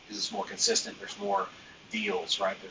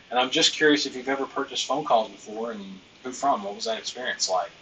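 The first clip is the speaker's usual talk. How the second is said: nonchalant. Shown as a demonstration. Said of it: "Notice how it sounds kind of nonchalant".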